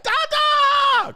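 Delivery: put-on very high, loud shouted baby call; excited baby. Toddler hearing the garage open, squealing for dad. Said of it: "the baby's like".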